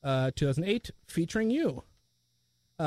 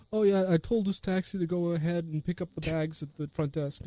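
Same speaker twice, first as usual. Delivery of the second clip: softer, put-on offhand voice; David; 3 dB quieter than usual. Jumper explaining about the bags, lightly imitated. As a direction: toss it off as a mild character impression. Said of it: "that's a great David, uh, impression".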